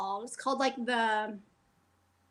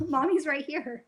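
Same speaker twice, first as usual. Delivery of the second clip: laughing reassurance; 4 dB louder than usual. Real, not acted. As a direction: chuckle through it, gently. Mom reassuring toddler again, laughing.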